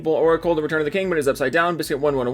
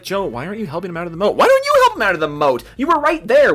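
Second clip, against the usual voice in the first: mocking whiny fans; 4 semitones higher, 5 dB louder, faster than usual. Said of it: "now all of a sudden everyone's like".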